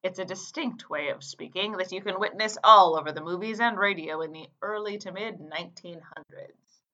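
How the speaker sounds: light mid-Atlantic 1940s radio announcer accent; a rough 1940s radio voice demo. Shown as a demonstration. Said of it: "here's one example of the nineteen forties radio voice".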